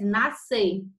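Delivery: "nascer" said joined as "na-ser"; single S sound. Shown as a demonstration. Teacher modelling nascer as if it had no C, single s. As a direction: say "nascer" with one s sound, the C silent. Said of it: "como se a gente aqui não tivesse o C, fosse um S".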